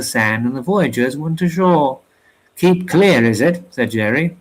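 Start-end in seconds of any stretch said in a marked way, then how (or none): 2.6-3.6 scoffing, pitch jumps up on clear; mocking echo. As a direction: toss his own words back at him, sneering. Jerry throws the words back.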